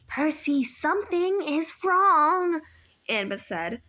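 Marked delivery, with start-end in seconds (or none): 0.1-2.6 slow, tense worried warning; urgent warning. A narrator's reading. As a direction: warn Percy under your breath. Annabeth warning Percy.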